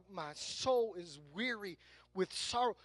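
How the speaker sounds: slow, soft, weighted verse; deliberate rereading. Shown as a demonstration. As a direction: read it slowly, letting each word settle. Corrective rereading after the mock reply.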